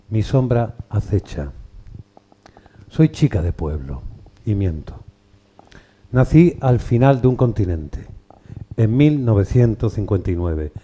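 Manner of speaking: measured poem reading with pauses after each line; poem recital. Acted. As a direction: recite it line by line, letting each line fall at the end. Reads a poem aloud.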